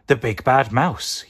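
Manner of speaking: loud, high frightened yell. Acted. Gruffalo's child sees the huge shadow, yelling. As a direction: shout it out in alarm. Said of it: "yelled the Gruffalo's child".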